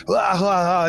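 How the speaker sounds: acted drowning gasps; mock drowning cries. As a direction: flounder as if going under.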